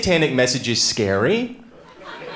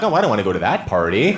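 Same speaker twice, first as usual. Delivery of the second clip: low, quick mock reluctance; 6 semitones lower, faster than usual. Comic voicing someone avoiding a party, reluctant. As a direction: turn it down in a low, hurried aside. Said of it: "And it sounds like".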